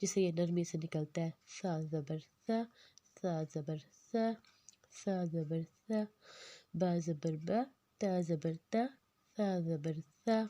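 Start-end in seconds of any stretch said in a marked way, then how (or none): 1.6-10.4 ثا said softly with the tongue tip at the teeth. Shown as a demonstration. Teacher drilling the class, soft ثا. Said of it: "ایسے ہی اس کو نرمی سے پڑھنا ہے".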